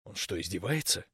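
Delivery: low, hushed aside; whisper. A narrator's reading. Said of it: "шёпотом спросил Саня". (тихо, почти шёпотом)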